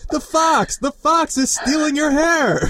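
high, slow cartoon-kid cry of alarm; high kids' cartoon voice calling out the fox; Dora the Explorer. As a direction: shout it like a kids' show warning. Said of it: "Dora the Explorer".

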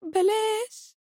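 بلاش pitched high and soft, rising; a hushed, near-tearful بلاش; mock-tearful بلاش breathed high; teary plea. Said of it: "والدموع تترقرق في عيناي".

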